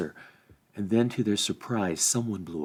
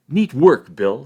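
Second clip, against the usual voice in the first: loud, delighted praise; pleased cheer; 5 semitones higher, 12 dB louder, slower than usual. A narrator's reading. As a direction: cheer the pony on. Sam praising pony.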